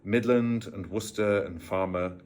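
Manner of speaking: lightly put-on West Midlands Worcester accent; a touch of rural Worcester accent; Worcester farmer accent. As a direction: slip back into a hint of the Worcester farm accent. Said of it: "sounded a bit more".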